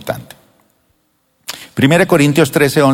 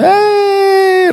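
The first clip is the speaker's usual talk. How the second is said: put-on high, excited little-kid squeal; high mock child squeal; childish cry; 4 dB louder than usual. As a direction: squeal like a toddler spilling milk. Voicing a messy child.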